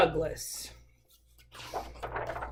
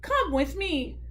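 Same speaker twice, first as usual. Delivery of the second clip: gentle, higher-pitched invitation; kindly; 6 semitones higher, slower than usual. Acted. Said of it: "said the rabbit kindly".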